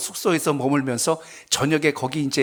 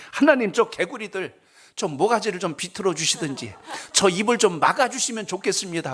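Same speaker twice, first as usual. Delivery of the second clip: higher-pitched whiny plea to God; complaining prayer; 5 semitones higher than usual. Retold or imitated. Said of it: "이렇게 기도하는 거예요".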